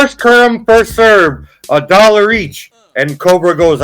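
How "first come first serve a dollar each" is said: seller mom. Retold or imitated. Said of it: "she goes".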